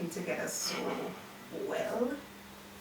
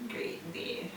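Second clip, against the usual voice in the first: whispering; 3 semitones lower than usual. Real, not acted. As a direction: whisper it, breathy and hushed. Sudden hushed closing remark.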